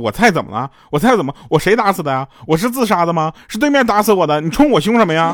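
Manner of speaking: heated, indignant, high-pitched angry snapping. Retelling a teammate's outburst after being scolded in a game: imitating Yingjie angrily snapping back. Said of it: "她就跟我们急眼了".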